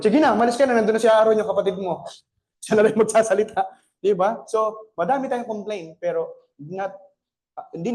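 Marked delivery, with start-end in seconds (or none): 0.0-3.6 louder, brisk dismissal; impatient Lord. Retold or imitated. The Lord sending Moses off, louder and brisk. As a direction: send him off briskly. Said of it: "Sabi ng Lord".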